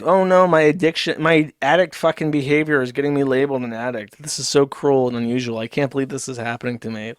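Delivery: exaggerated poor-me complaint, falling away at the end; mock whining. Commentator mocking Ricada's self-pity, mock whine. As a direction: imitate someone whining about being labeled. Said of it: "he's just whining".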